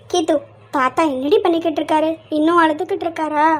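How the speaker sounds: low-pitched, subdued concern; sad. Acted. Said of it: "ஏன் இவ்வளவு சோகமா வந்து கேட்டுக்கிட்டு". (லேசான சோகத்துடன் கேட்பது)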